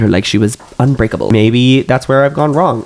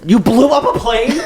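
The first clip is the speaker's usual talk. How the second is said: high, slow laughing question; 12 semitones higher than usual. Real, not acted. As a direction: laugh out the disbelief.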